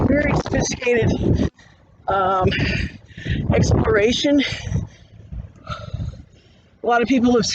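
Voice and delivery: winded from the uphill climb; talking while out of breath. Real, not acted. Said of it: "sorry, I'm out of breath".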